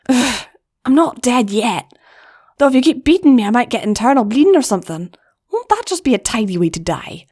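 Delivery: lightly voiced older sister, wry and weary; a hint of a wounded, wry big sister; Flash's voice. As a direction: joke off the pain. Flash answers Wire.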